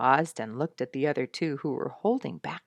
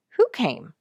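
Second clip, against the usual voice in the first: puzzled; 7 semitones higher, 6 dB louder than usual. A narrator's reading. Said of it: "I asked, puzzled".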